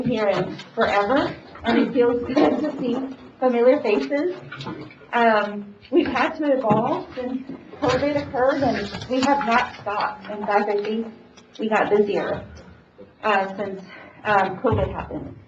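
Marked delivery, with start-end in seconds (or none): 5.9-15.4 muffled behind a face mask; through a face mask. Real, not acted. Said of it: "it's really hard to talk with these masks".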